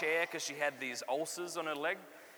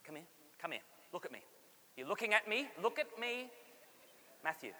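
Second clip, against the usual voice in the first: imitating mum, much softer, firm; hushed stern mum; 9 dB quieter, faster than usual. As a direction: mum hushes her son outside the cathedral, stern and soft. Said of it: "she'd get down like this".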